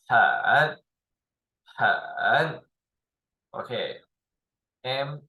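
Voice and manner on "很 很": 很 alone, dipping then rising; third tone. Shown as a demonstration. Teacher demonstrating the word, full third tone. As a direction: give 很 a full, drawn-out dip. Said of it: "third tone. We will accent like".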